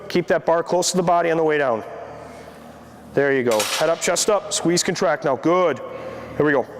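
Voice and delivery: trainer calling out reps; encouraging gym coach cues. Real, not acted. Trainer coaching a live deadlift set.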